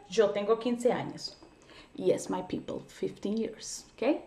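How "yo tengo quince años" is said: said slowly and clearly as an example; slow model sentence. Shown as a demonstration. Teacher modeling a Spanish sentence slowly. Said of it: "Simple y sencillamente".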